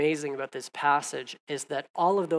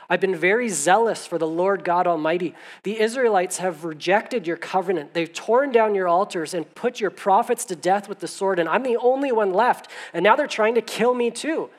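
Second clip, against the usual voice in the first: Elijah's lament; 4 semitones higher, 6 dB louder than usual. Acted. Elijah's desperate complaint voiced.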